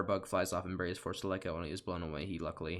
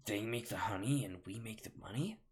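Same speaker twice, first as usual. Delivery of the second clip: whispered ending; 3 dB quieter than usual. Shown as a demonstration. Beekeeper retrying the line in a whisper. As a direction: drop into a voiceless whisper on the second half.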